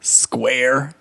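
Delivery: word by word, with long pauses; mock creepy quote. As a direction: imitate a creepy man, halting after each word. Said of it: "and he goes".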